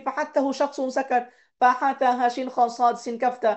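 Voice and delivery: mnemonic rattled off fluently; confident memorized recitation; recited from memory. Shown as a demonstration. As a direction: show it is memorized by reciting smoothly. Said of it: "এটা আমার মুখস্থ আছে".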